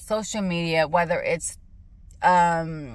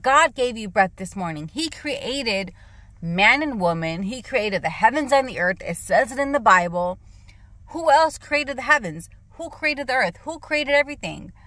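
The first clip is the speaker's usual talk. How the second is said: heated retold lecture; 4 semitones higher than usual. Retold preaching at boyfriend.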